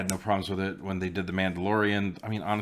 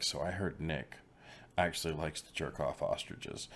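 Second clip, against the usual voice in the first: gossip whisper; 3 semitones lower, 9 dB quieter than usual. Retold or imitated. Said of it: "someone whispering amongst the crowd".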